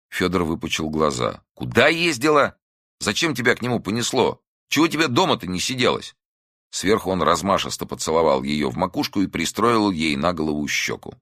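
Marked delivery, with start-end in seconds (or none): 1.5-6.1 angry scolding. A narrator's reading. Son berates mother.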